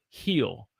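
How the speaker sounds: "heel" for hill, with a long ee; "heel" drawn out slowly, Southern style. Shown as a demonstration. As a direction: stretch hill out until it becomes "heel". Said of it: "for Southerners, we say heel".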